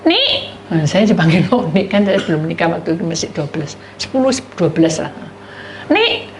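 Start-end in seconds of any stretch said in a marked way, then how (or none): 0.1-0.6 high call across the yard; calling out a name. Retold or imitated. Neighbour calling the boy. 5.9-6.3 high call across the yard; calling out a name. Retold or imitated. Neighbour calling the boy.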